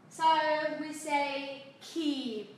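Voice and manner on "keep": "keep" stretched very slowly with a long ee and a popped final p; exaggerated "keep". Shown as a demonstration. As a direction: draw out "keep" as a slow, exaggerated model. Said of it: "cường điệu hóa lên một chút". ("keep" kéo dài, bật rõ âm p)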